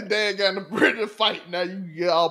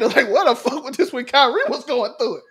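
laughing; 7 semitones higher, 5 dB louder than usual. Real, not acted. Laughing while recounting being mad.

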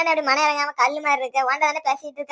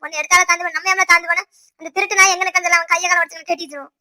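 loud, heated call for revenge; angry urging; 4 dB louder than usual. Acted. Relative urging Gopal to break the attacker's legs, loud and angry. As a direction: push them to hit back, fuming.

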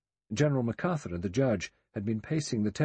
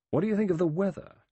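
sudden question pitched much higher; abrupt; 10 semitones higher, 3 dB louder, faster than usual. A narrator's reading. Lombard abruptly asks Blore about the weather, sudden and high. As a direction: blurt it out of nowhere. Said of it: "He said abruptly".

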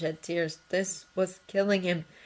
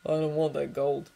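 flat; 3 semitones lower than usual. Acted. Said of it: "Harry replied flatly".

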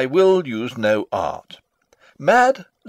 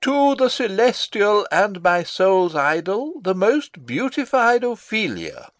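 higher, mock-lovesick letter reading; stage direction: father reads a prince's love letter aloud, higher and mock-tender; 6 semitones higher than usual. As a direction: read out the young lover's gushing words, a touch mocking.

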